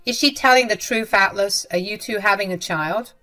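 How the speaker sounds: mother demanding the truth from her son, alarmed; alarmed disbelief. Acted. Jenny presses her son, shocked.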